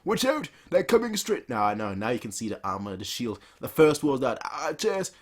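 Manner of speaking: high, loud alarm cries; battle warning shout. Acted. Zhao soldiers warning of the charge, high loud alarm shouts. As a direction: yell the warning down the line.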